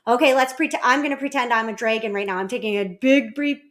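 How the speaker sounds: put-on loud, animated play-along voice for a child; playful pretend dragon. Parent pretending to be a dragon for child, playful. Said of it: "I always do a dragon breath".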